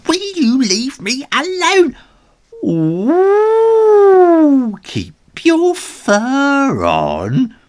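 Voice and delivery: high loud angry shout. Acted. Ginger shouts at his copycat shadows, high loud. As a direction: yell at them to back off. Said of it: "he shouted at them".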